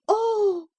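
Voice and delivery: high piercing cry of despair; a shattered, anguished Oh. A narrator's reading. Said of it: "anguished cries and flutterings".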